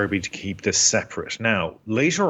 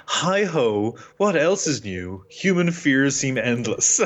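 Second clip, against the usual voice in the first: mock world-weary contempt, pitched up; sarcastic aside; 5 semitones higher, slower than usual. Podcaster quoting a heroine's aside to co-host, sarcastic and contemptuous. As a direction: quote it with dripping, amused disdain. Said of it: "sarcastic little aside she has".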